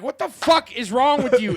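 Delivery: mock preacher yell. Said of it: "And you can be like".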